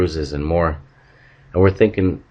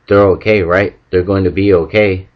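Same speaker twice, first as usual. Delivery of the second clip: loud, frantic pleading; panicked plea; 4 dB louder than usual. Acted. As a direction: beg for reassurance, louder. Panicked bystander after the crash.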